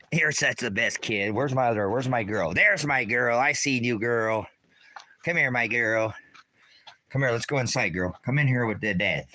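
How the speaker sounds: high sing-song calling; calling the cat. Real, not acted. Owner calling his girl cat inside, high cooing. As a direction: call your cat in, cooing.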